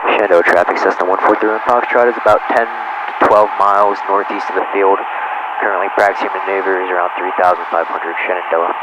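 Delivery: loud, clipped radio call, measured pace; pilot over the radio. Real, not acted. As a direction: announce position to traffic on the radio.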